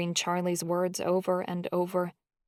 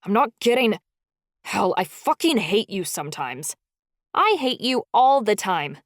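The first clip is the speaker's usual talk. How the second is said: loud, furious retort; angry outburst; 5 dB louder than usual. Acted. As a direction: spit it out in rage. Charlie snaps in heated argument.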